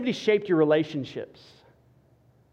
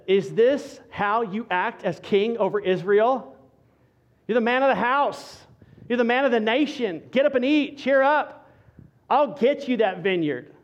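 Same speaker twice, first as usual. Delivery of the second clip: scolding Jezebel; 5 semitones higher than usual. Retold or imitated. Jezebel scolds her sulking husband.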